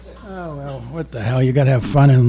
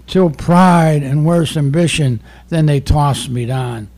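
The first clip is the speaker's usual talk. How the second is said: poem recitation; slower than usual. Acted. Recites Milton.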